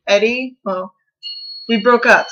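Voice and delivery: ordinary delivery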